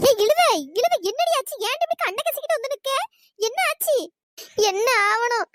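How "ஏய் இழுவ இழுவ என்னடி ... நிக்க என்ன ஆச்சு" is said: alarmed asking. Acted. Friend arrives in tears.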